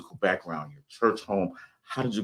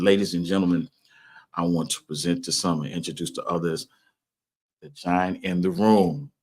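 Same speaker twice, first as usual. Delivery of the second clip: announcer introduction. Real, not acted. Host introducing his guest to the radio audience, grand announcer voice. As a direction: present the guest like a big stage entrance.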